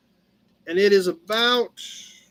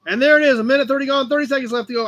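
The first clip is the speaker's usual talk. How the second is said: auction time call; 5 semitones higher, 4 dB louder, much faster than usual. Real, not acted. Calling auction time mark.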